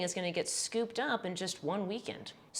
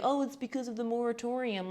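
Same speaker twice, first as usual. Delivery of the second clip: lightly mocking, higher-pitched objection; snarky; 4 semitones higher than usual. YouTuber voicing viewers who push back, snarky. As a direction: imitate a snarky know-it-all objector. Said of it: "don't get snarky with me and say".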